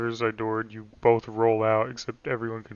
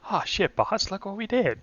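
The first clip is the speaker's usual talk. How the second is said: put-on old-time gangster voice; 9 semitones higher than usual. Continues the gangster bit.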